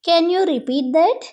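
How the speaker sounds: very slow, clear classroom English; slow model phrase. Shown as a demonstration. Teacher modelling the phrase for Telugu students, slow and clear. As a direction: spell it out slowly for learners. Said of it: "అప్పుడు ఇలా అంటారు".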